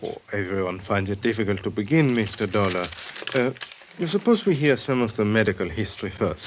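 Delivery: put-on light Viennese accent, quick and polite; a gently Viennese psychiatrist, brisk and courteous. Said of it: "and charmingly Viennese".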